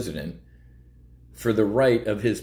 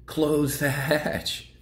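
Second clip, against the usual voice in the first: mock panicked sailor; 5 semitones higher, slower than usual. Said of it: "the emotional guy on the other side".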